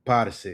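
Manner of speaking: "Parce" with PAR punched, CE dropped lightly; stress on PAR. Shown as a demonstration. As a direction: hit the first syllable of Parce: PAR-se. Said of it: "Emphasis on the par".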